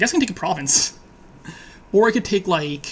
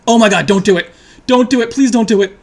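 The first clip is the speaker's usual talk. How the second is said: louder, begging the game not to; loud pleading; 6 dB louder than usual. Real, not acted. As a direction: plead loudly with the screen. Dreaded card about to come.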